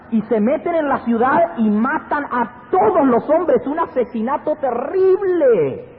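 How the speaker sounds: high, intense pulpit storytelling; full-force preaching. Acted. Preacher tells congregation of a terrible massacre, impassioned high-pitched preaching.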